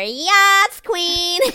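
hammed-up drag-style cheer, stretched long; very loud, drawn-out mock whoop; mock group cheer. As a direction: belt it out high, imitating excited women. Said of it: "straight blonde women go".

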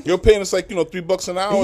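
laughing in disbelief. Real, not acted. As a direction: laugh through the complaint. Guest laughs recalling low pay.

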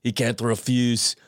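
hammed-up, wandering Arnold-style accent; botched Arnold accent. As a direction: attempt an Arnold accent and let it drift. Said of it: "turned into Fat Bastard for the first part".

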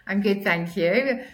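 sore-throat croak, slow; rough, croaky throat. Real, not acted. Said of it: "so excuse my croaky voice".

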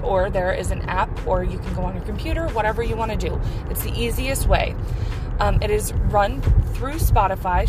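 upbeat sponsor read, selling it. Acted. Host reads sponsor ad to listeners, upbeat ad read. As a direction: pitch Anchor to the podcast listeners.

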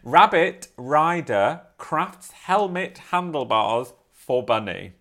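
slow, drawn-out Australian news read; Australian accent. Shown as a demonstration. Reading the headline again to her co-host in a fuller Australian accent. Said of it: "Let me read it in".

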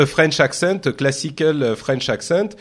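English spoken with a French accent, like the speaker on stage; a light French-accented English. Shown as a demonstration. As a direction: show the demo's French accent. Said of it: "It was like this".

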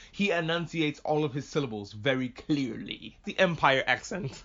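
slow, crisply separated syllables in a mock Empire manner; deliberate enunciation. Shown as a demonstration. Describing the Empire guy's British accent, over-enunciated. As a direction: draw out each syllable very clearly. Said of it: "a very deliberate British accent".

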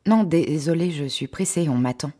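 a light hint of fear as she brushes him off; trembling refusal. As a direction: refuse him with a slight nervous quaver. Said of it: "en tremblotant".

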